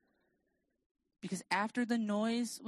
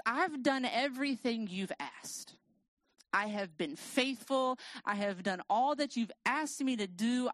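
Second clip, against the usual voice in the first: gloves-off prayer; 4 semitones higher than usual. Retold or imitated. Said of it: "the gloves are coming off kind of prayer".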